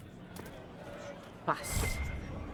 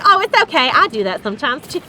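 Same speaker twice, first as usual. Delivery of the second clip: put-on southern accent; 4 dB louder, faster than usual. Lady forgiving the accidental imitation, southern accent. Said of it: "with a strong southern accent".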